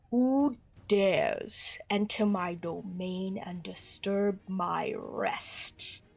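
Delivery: deep, low, gravelly, rasping, powerful voice, very drawn out. A game master voices a being speaking into the players' minds, low, gravelly, powerful voice. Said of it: "low, graveling, and powerful voice".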